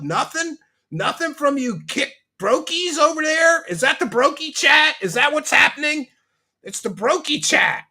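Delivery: high-pitched mock disbelief; mock outrage. Streamer mock-complaining no subs from Kick chat, high and indignant. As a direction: whine at them, hammed-up and high.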